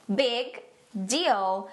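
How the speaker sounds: slow, separated "Big" and "deal"; word-by-word model. Shown as a demonstration. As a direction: pause between the words for learners. Phrase broken down for learners. (palavra por palavra, devagar)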